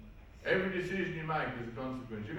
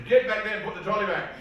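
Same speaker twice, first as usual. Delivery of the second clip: scolding inner voice; 7 semitones higher, 8 dB louder than usual. Retold or imitated. Inner voice scolding over trolley.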